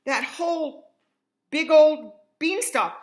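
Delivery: put-on a boy yelling in panic to his mother; screaming. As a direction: scream for Mom as the giant chases. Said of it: "He ran out screaming".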